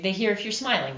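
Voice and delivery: audible smile, quick and easy; smiling voice. Shown as a demonstration. Narrator showing that listeners hear a smile, smiling voice. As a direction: say it through a smile. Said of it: "hear that in your voice".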